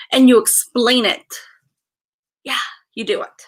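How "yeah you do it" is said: a quick whispered aside. Real, not acted. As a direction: breathe it to the viewers. Aside to viewers.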